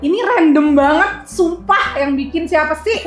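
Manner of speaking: excited disbelief. Real, not acted. Baffled by the odd candy.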